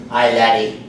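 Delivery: low Irish greeting; lightly put-on Irish brogue; Irish accent. Irishman spotting a pub, Irish accent. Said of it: "That's my Irish accent".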